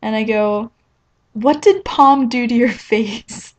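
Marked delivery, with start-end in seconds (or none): 1.3-3.5 slow question broken by a laugh; laughing while asking. Retold or imitated. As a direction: giggle through the question, drawn out. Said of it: "the first thing I say".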